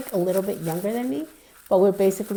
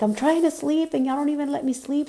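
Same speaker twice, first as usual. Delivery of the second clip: angry sister; 7 semitones higher than usual. Retold or imitated. Angry sister woken, slamming doors.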